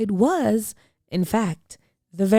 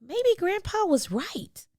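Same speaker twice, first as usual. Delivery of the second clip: scared thought; 12 semitones higher than usual. A narrator's reading. Scared girl thinking.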